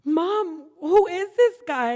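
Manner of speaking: retold daughter's angry question. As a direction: demand it like the upset daughter. Daughter demanding answers.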